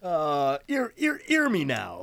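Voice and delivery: high, bad Jamaican accent; hammy fake Jamaican accent. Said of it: "trying his best to do a Jamaican accent".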